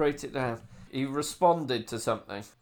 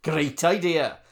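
put-on Welsh accent; 3 semitones higher, 4 dB louder than usual. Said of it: "I think Welsh really added to it".

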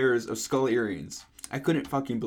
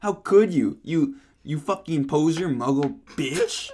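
mild shout; 2 semitones higher than usual. Acted. Continuing the shouted accusation, mild mock shout. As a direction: hurl the insult in a mock shout. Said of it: "he shouted".

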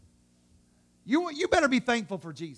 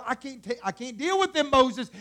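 exasperated God; 2 semitones higher than usual. Acted. God complaining to Moses about the people, exasperated. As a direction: complain at moderate volume, fed up.

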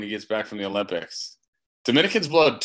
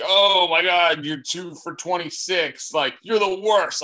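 drawn-out, higher exasperated fan; dragged-out mock disgust; mock fan outrage; 4 semitones higher, slower than usual. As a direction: imitate fans burying a player, slowly. Voicing fans burying struggling players.

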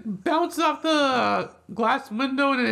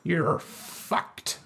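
acted-out retort; much slower than usual. Rental clerk turning it around on a customer, mock dismay then deadpan.

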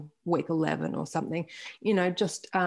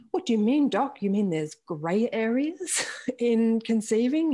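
mock joking; 4 semitones higher than usual. Joking with her doctor about grey areas, mock-innocent. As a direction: tease the doctor with fake innocence, slowing at the end. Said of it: "me joking with my doctor".

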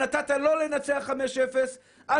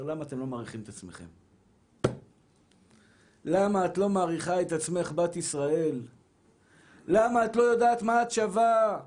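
roaring; 7 semitones lower than usual. Real, not acted. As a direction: swell into a roar at the congregation. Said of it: "וזה אני שואג ואומר".

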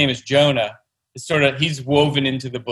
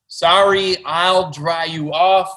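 higher, drawn-out slow apology; octopus, sweetly sorry; 4 semitones higher, much slower than usual. Acted. Octopus apologizes to upset boy, slow and higher. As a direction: coo it like a sly friend. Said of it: "and he says".

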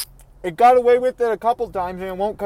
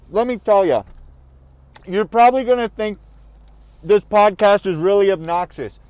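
talking while eating a donut; chewing through the words; mouth full. Real, not acted. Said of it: "'cause I talk with my mouth full".

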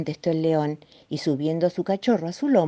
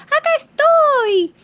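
high, slow yell, more insistent; shouting again; 10 dB louder, much slower than usual. Acted. The little piglet repeating his call from the roof.

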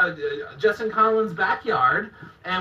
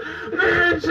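higher, lighter replay of the battle cry; mock wrestling cry; 7 semitones higher than usual. Recalling his finishing move to a friend, light mock cry. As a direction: toss the move name off again, half-hearted. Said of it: "That was my finishing move".

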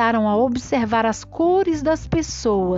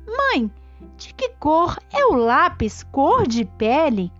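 put-on high questioning child voice; lightly voiced curious kids; 4 semitones higher than usual. Children ask their mothers.

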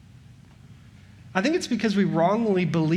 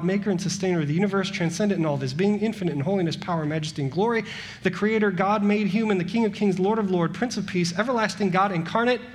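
building crescendo; faster than usual. Acted. Building list of divine titles.

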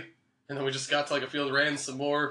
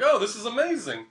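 delighted; 6 semitones higher than usual. Retold or imitated. Delighted at concession stand, retold.

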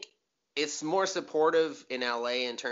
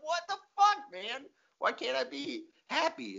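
very high, pleading squeak; exasperated whine; 13 semitones higher, 3 dB quieter than usual. Retold or imitated. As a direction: plead in frustration. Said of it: "And you're like".

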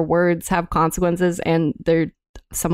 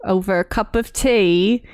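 put-on British accent; 2 semitones higher than usual. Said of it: "I'm gonna stop the accent".

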